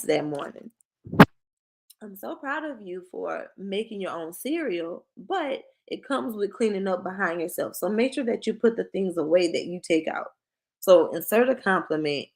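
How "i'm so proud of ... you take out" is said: softer, gentle encouraging parent voice; warm praise. Shown as a demonstration. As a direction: praise the child softly before the correction. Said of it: "we use that same example".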